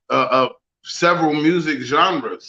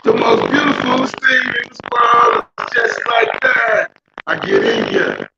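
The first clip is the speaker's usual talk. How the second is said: glitchy robotic call audio; robot voice, like a broken phone line; 7 semitones higher, 3 dB louder than usual. Real, not acted. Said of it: "you sound like a damn robot".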